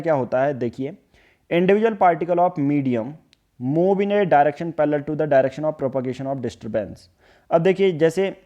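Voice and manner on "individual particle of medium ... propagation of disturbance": slow, word-by-word textbook definition; teacher reading a definition slowly aloud; slow dictation. Acted. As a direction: dictate it so students can write.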